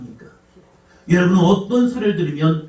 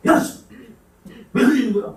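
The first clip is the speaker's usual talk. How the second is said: imitating angry outburst; 6 semitones higher than usual. Father snapping at children spilling food, mock angry yell. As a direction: replay the irritated yell at the table. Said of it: "화를 내요".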